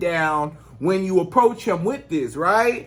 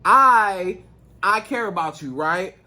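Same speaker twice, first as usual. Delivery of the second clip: calm, composed delivery; calm, caring opening to a serious talk. Shown as a demonstration. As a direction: say it without yelling, composed and sincere. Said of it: "say it to him in a calm voice".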